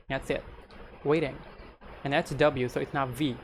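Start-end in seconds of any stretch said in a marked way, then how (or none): 1.0-1.4 "waiting" with a D for the T. Shown as a demonstration. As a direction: say "waiting" like "wading". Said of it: "You replace the T with D".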